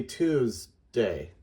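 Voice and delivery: Tuesday slowly as "TOOZ ... day"; deliberate two-part Tuesday, "twos-day"; sounded out by syllable. Shown as a demonstration. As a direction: split Tuesday after a buzzing "tooz". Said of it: "multiple twos would be".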